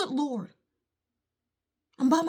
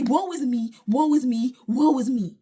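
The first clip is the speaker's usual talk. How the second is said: mock whining; 2 semitones lower, 5 dB louder than usual. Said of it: "and say".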